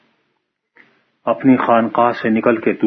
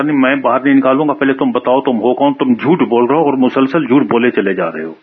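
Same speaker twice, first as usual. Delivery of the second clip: stern refusal; 4 semitones higher, 3 dB louder than usual. Acted. Priest refuses, accusing him.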